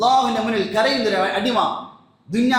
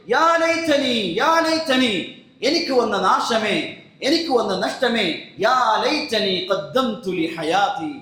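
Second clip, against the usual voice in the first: imitated wailing regret; 2 semitones higher, slower than usual. Preacher voicing a man who sees hell before him, imitated wailing. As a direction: cry out the regret as an imitated wail. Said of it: "മനുഷ്യൻ കരഞ്ഞുകൊണ്ട് പറയും".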